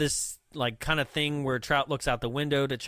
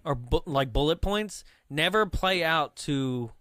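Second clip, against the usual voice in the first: usual speaking voice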